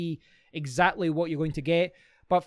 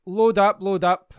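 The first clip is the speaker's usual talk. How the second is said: louder, impatient urging at a stalled page; will it to load, raised voice; 3 semitones higher, 8 dB louder, slower than usual. Real, not acted. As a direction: coax a slow website along, loudly.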